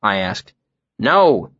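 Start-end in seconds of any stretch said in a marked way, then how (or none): 1.1-1.5 snapped. A narrator's reading. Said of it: "Manette snapped".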